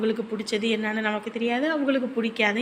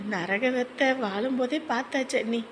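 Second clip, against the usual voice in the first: quietly tearful confession; restrained, weary sadness on the verge of crying; 3 dB quieter than usual. Acted. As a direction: speak softly, close to tears. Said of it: "எதுக்கு அழுதுகிட்டு இருக்க".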